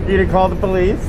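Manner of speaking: high, loud disbelieving question; can't believe what you heard; loud incredulous retort. Real, not acted.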